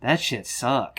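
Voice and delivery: put-on "suck" with no final S, copying the kid; imitated "suck", the final S dropped; suck without the S. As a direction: end on a hard K in "suck". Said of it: "not even sucks, it just suck".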